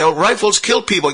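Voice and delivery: high mock parody of critics; mocking quote. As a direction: sneer it up high like a naive critic. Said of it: "And people say".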